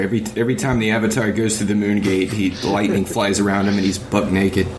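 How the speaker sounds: usual speaking voice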